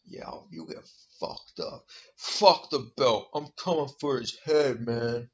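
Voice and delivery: mock monotone. Imitating the fighter going after the belt, slow mock monotone. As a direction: mimic a slow talker, nearly whispered at first. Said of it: "And he talks".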